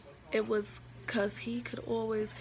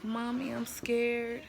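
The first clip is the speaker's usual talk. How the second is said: crying quote; 3 semitones higher, slower than usual. Retold or imitated. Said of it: "I'm like".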